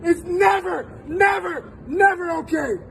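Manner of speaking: choked up, tearful repeats; emotional. Real, not acted. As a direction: voice breaking on each never. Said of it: "I'm getting emotional".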